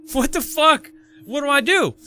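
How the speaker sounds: high-pitched, helpless exclamation; retold panic. Man left alone with blaring alarm, panicked. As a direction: act out panicking with nobody to help.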